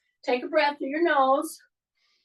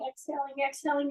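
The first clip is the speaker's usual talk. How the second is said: softly exhaling as you count it down; fading exhale; 6 dB quieter, faster than usual. Shown as a demonstration. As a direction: breathe the word out, going softer. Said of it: "Exhale, and as you're coming down".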